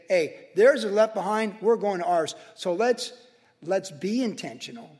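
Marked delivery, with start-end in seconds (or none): 0.1-2.3 louder, rallying call: theirs are left behind; declaring loudly. Retold or imitated. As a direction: proclaim it like a battle cry. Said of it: "So I'm gonna say".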